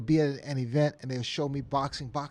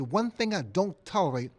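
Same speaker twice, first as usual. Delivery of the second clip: higher, firm mock admonishment; lightly acted host laying down a rule; a hint of imitated displeasure; Nelson Mandela; 5 semitones higher, 5 dB louder than usual. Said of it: "He said".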